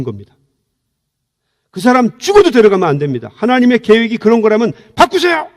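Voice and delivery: loud, high defiant demand at God; re-enacted angry crying prayer. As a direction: threaten God to change the plan. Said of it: "막 소리를 지르면서 가서 막 울면서".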